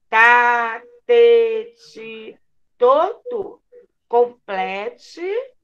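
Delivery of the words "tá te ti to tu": syllable drill. Shown as a demonstration. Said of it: "família silábica da letra T".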